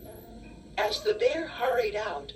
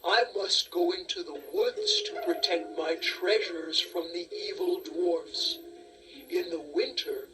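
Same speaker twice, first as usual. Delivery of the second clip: bear; 3 semitones lower than usual. Acted. Bear voice, lower, different timbre.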